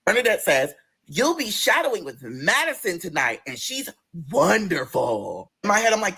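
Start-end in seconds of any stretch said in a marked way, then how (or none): 1.1-5.5 slow, sing-song manager voice; lightly voiced manager. Bernadette telling the server her trainer, slow sing-song. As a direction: drawl it like a sweet boss.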